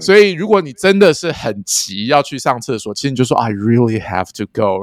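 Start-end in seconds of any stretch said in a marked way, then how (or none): 3.4-4.8 urgent. Shown as a demonstration. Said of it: "搭配一些你的语气跟表情".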